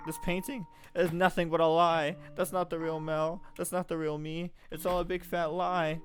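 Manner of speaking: put-on a girl betrayed, crying out at a portrait; anguished outburst. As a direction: rail at the lying painting, heartbroken. Nellie breaks down at the painting.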